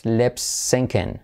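slow teacher's model of lip syncing, LEP SENK-en; English pronunciation. Shown as a demonstration. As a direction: lip syncing with short lax vowels, spaced out. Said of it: "en inglés se dice lip".

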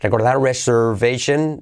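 "reservation" with the second r soft and weak. Shown as a demonstration. Teacher showing students how "reservation" is said fast, soft second r. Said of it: "la segunda R es floj".

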